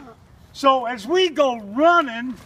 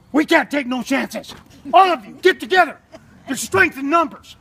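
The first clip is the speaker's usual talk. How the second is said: dead serious; faster than usual. Retold or imitated. Dad orders the boys to group up, mock serious. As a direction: bark orders like it's a real emergency. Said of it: "I went dead serious".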